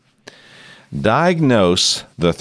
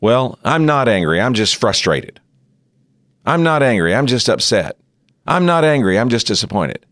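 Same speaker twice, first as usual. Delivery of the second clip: rising higher and louder with each I'm not angry; an angry person insisting, more heated each time; angry denial; 6 semitones higher, 3 dB louder than usual. Retold or imitated. Teacher voicing an angry person denying anger, mock heated. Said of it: "Now, they may say".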